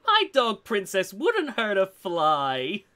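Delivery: slow creepy lady voice. Acted. Retrying the dog owner line, slow creepy lady. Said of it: "creepy lady".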